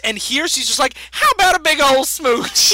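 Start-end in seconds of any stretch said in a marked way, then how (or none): 1.1-2.7 brash, louder mock Southern belle. Retelling Talia's flirting with Batman, mock Southern belle. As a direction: play a forward Southern belle, loudly. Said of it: "like, a Southern belle".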